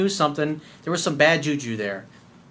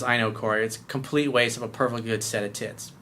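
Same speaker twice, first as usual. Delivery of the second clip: deadpan; 4 semitones lower, 5 dB quieter than usual. Retold or imitated. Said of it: "he said it totally deadpan".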